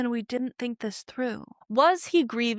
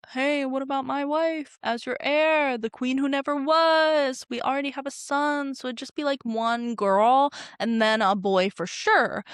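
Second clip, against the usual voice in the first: eager lord voice; 4 semitones higher than usual. Retold or imitated. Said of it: "Corlys pipes up and is like".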